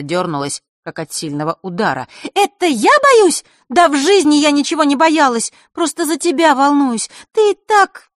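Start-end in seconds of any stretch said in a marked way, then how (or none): 2.3-8.1 put-on loud, high, offended girl; indignant. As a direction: bristle at being called scared.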